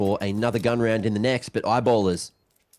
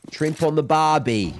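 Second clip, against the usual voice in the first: slow, hammed-up Australian accent, slightly higher; mock Australian accent; 5 semitones higher, 3 dB louder than usual. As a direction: lay on a stereotypical Australian accent. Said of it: "I'm not faking it. Ready?".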